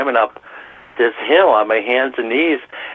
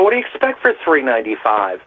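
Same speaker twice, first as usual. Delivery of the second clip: higher, mock-indignant retort to a rude diner; exasperated comeback; 4 semitones higher than usual. Waiter retells snapping at a demanding customer, mock-indignant. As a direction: play the fed-up waiter answering back.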